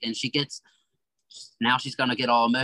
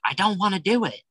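higher, whiny reluctant protest; mock reluctant whine; 9 semitones higher, 3 dB louder than usual. Caught by grandma's evil eye, a mock reluctant whine. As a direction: sulk like a kid refusing under a stern look. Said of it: "that's when you're like".

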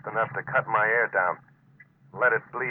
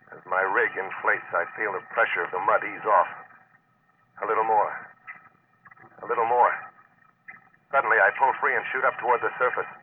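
inner monologue narration; 2 semitones lower than usual. Acted. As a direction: narrate the risky escape with growing urgency.

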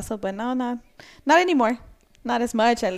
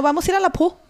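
laughing Spanglish; 8 semitones higher, 5 dB louder, faster than usual. Retold or imitated. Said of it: "you know".

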